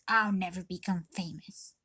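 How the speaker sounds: unvoiced whispered echo of the put-down. Girl repeating mom's words to herself in a whisper. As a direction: breathe it to herself like a defeated echo. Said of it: "she said".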